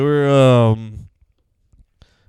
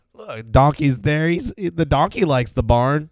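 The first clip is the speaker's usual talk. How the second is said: mock smug Joseph; 6 semitones higher than usual. Mocking Joseph belittling Mary.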